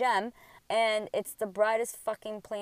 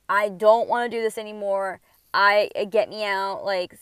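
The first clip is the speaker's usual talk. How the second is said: exasperated, louder demands to get out; acted fed-up plea; 7 dB louder than usual. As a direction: plead like you're sick of it all. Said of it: "I'm so sick of this connection".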